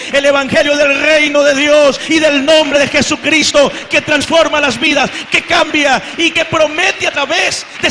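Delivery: loud, driving sermon delivery; fiery preaching. Acted. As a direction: preach it out with full force. Preaching rises to full force.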